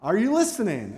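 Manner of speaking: emphatic, rising insistence; exasperated reply. Acted. God answering those begging him to speak, exasperated. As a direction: answer back as if already said plenty.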